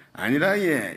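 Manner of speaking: lightly imitated Gyeongsang accent; joking Gyeongsang dialect quote. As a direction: say it like a Gyeongsang local. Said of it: "경상도는".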